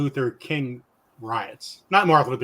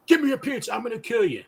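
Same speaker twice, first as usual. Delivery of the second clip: a higher, dazed mugger demanding pizza; drugged-out guy; 9 semitones higher, faster than usual. Retold or imitated. Stoned stranger demands our pizza, higher dazed voice. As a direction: mimic a stoned stranger grabbing for food. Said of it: "All drugged out".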